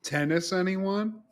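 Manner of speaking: mock smooth line. Mock pickup line, laughing.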